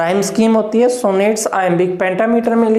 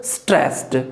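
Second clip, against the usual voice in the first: slow dictation; much slower than usual. Shown as a demonstration. Teacher dictating stress pattern to students, very slow. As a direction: dictate each word for the notes. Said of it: "teacher dictating slowly".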